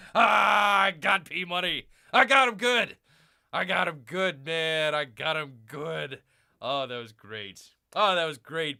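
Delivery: gleeful shout. Real, not acted. Gloating to viewers that he fooled P Money, gleeful shouting. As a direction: crow over the prank landing.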